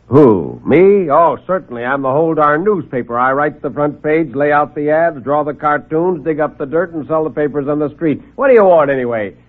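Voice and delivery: high, fast-talking wisecracking newsman; brash reporter. Acted. Reporter mocking the nervous little visitor, brash and high. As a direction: rattle it off like a cocky hack.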